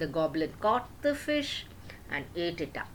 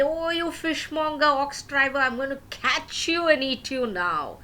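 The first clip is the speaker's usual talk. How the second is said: goblin threat; 6 semitones higher, 3 dB louder than usual. Acted. Goblin threatens to eat him.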